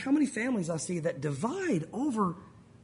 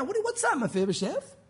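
mad king; 5 semitones higher than usual. Pretend. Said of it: "Maybe it was mad".

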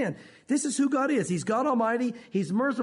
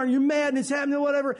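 heated outburst; 5 semitones higher, 3 dB louder, faster than usual. Retold or imitated. Describing angry sinning moment.

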